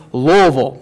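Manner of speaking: Louisville squeezed to luh-vul, as few syllables as possible; swallowed local Louisville; local pronunciation. Shown as a demonstration. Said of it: "Just as few syllables as possible".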